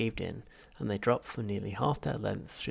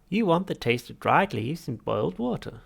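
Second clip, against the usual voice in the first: high, loud baffled machine voice; incredulous machine; 6 semitones higher, 8 dB louder than usual. Acted. Machine questioning Arthur's order, incredulous. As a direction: sound amazed anyone wants this.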